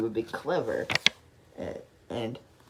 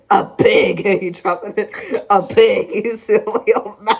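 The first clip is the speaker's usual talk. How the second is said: loud, higher laughing jeer; mocking laughter; 5 semitones higher, 8 dB louder, slower than usual. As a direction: jeer at the silly old man. Elephant mocks Dizzy.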